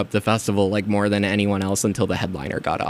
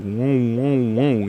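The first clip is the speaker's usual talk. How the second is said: wobble bass imitation; much slower than usual. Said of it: "it gets louder and then quieter".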